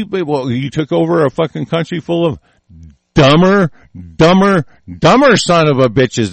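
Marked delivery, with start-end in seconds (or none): 3.1-6.3 loud repeated insult. Real, not acted. Ranter piling on insults, loud and emphatic. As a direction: punch each dumber louder.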